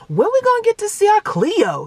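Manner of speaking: put-on high, loud kid voice; imitated pestering child. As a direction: whine impatiently like a little boy nagging mom. Voices impatient son tugging her arm.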